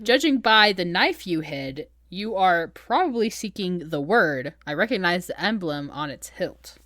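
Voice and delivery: slow, deliberate quoted speech; imitating a composed hostess reasoning aloud; measured deduction. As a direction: spell it out unhurriedly. Quoting the perceptive hostess, slowly.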